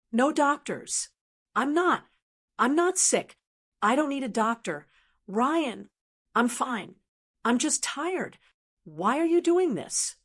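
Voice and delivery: high-pitched pleading, fraying as it climbs; a frightened old man protesting on the phone; paranoid wail. Acted. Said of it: "a high-pitched, paranoid wail".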